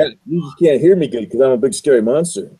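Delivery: a hint of a monster voice. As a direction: speak as the masked monster. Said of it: "I speak monsterese".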